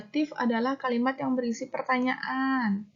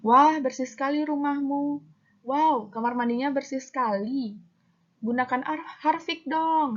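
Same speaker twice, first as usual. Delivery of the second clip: higher-pitched, admiring ad-style exclamation; exclaiming with feeling; 3 semitones higher than usual. Shown as a demonstration. Teacher demonstrates interjections from a cleaner ad, impressed exclaiming. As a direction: exclaim "wah" and "wow" as if impressed. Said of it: "menggunakan intonasi yang menggambarkan perasaan".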